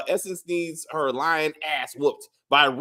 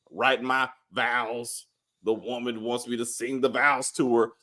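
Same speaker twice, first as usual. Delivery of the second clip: mocking Taj; 5 semitones lower, 4 dB quieter than usual. Mocking Taj's reply.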